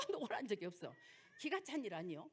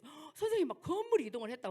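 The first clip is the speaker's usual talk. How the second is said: a gasp, then a louder startled cry; gasping, louder cry of childlike surprise; startled child; 2 semitones higher, 6 dB louder than usual. Retold or imitated. Child cries out to teacher.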